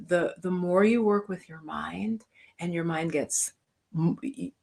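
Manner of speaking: breathy hushed whisper; whispered aside to the meditation class. Real, not acted. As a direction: drop to a whisper to pull them close. Explaining meditation to the viewers.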